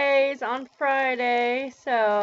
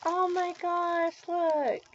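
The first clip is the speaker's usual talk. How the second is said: excited gasp; 7 semitones higher than usual. Real, not acted. Finds gifts in package.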